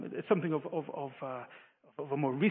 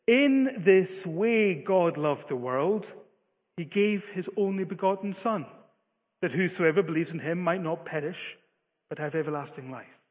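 intended verse reading. Shown as a demonstration. Preacher reads the verse as it was intended, in a measured way. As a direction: set out "In this way" deliberately, then read on evenly. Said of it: "the way that it was intended to be read is this".

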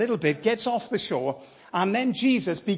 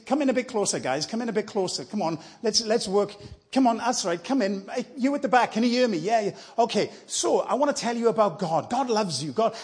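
calling out to a crowd; 3 semitones higher than usual. Acted. Jesus calling the crowd closer.

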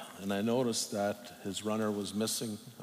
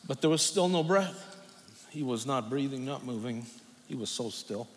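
emotional; 3 semitones higher than usual. Real, not acted. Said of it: "I get emotional on this one".

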